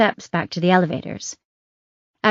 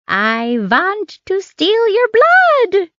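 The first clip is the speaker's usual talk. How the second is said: high, slow hammed-up vampire accent; Dracula-esque accent; 13 semitones higher, 4 dB louder, much slower than usual. Nurse jokes to her patient in a mock Dracula accent. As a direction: ham up a campy count out for blood. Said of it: "Affecting a Dracula-esque accent".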